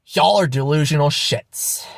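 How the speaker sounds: restrained repeat of the insult; subdued contempt. Real, not acted. Vlogger judging deluded believers, subdued contempt. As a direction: state it as settled fact.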